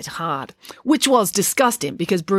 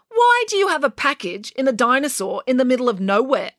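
put-on suspicious girl; 7 semitones higher than usual. A narrator's reading. April questions the thieves.

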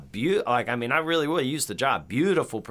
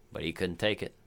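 ordinary delivery

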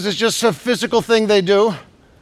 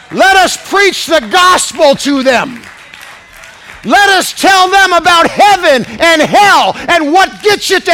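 high, loud preaching shout, slowing on the end; full-force preaching; 9 semitones higher, 5 dB louder, slower than usual. Acted. Preacher shouting at the congregation, full force. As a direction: thunder it at the congregation.

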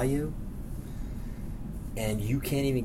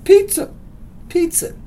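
much higher, loud yell; 6 dB louder than usual. Retold or imitated. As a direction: shout it across the slope. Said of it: "you got people yelling".

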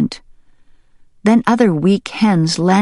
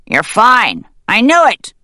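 higher, louder glad cry; excited; 5 semitones higher, 4 dB louder than usual. Acted. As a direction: burst out with joy. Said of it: "The excited voice grew louder".

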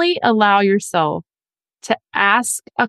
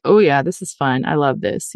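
mock smug enjoyment; 6 semitones lower than usual. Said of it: "They're the only one that's like".

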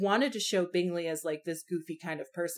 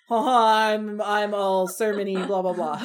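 hammed-up preachy droning; mock sermonizing Mary; 6 dB louder than usual. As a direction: send up a sermonizing middle sister. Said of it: "the ninety-five Mary, who's just like".

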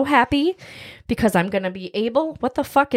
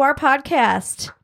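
unvoiced slow tag-on; whispering; 3 semitones higher, much slower than usual. Real, not acted. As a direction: whisper it slowly for effect. Whispered end of plea.

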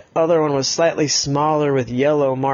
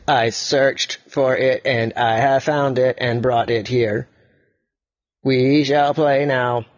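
robot voice; slower than usual. Acted. Yellow robot speaks.

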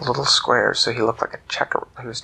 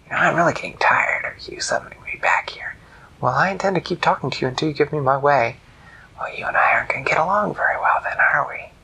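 annoyed whispered trickster; fed-up trickster griping; hushed irritated jackal; 3 semitones higher than usual. Acted. Jackal exasperated.

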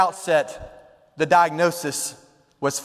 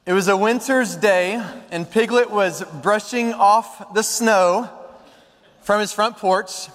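measured storybook reading, lifted above the chatting pitch; story narration. A narrator's reading. Preacher reads a Pooh story to the congregation, measured storytelling. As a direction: read it like a children's story.

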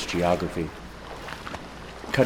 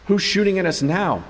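much higher, loud panicked cry; 11 semitones higher, 4 dB louder than usual. Acted. Professor panicking under sudden rifle fire, high and loud. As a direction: panic as the shots ring out. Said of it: "Bath panicked".

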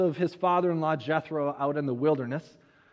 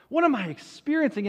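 higher, quicker mock bewilderment; wondering; 4 semitones higher, faster than usual. Moses wondering at the burning bush, higher, quicker bewilderment. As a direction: repeat the question more urgently. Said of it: "is wondering".

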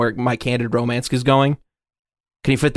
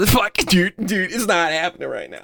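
ordinary talk

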